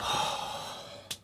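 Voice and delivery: long, soft exhale; real sigh. Real, not acted. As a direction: sigh out from the heat. Sighing from the heat.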